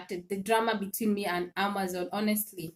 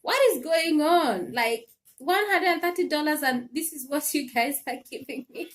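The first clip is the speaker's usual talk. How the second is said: angry complaint; 4 semitones higher than usual. Retold or imitated. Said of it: "I was so angry".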